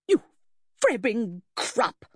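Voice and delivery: slow, spat-out fury; enraged society lady spitting out slow abuse; outraged insult. Acted. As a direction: hurl the insult slowly.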